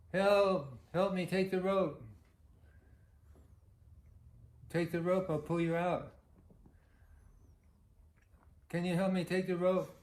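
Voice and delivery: hammed-up panicked drowning man; mock pleading. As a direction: plead from the well like he didn't hear the offer. Drowning man begs, comic fable.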